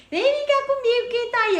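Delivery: put-on a creepy thing luring a child to play; creepy zombie voice. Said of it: "porque ele". (voz de zumbi assustadora e aguda)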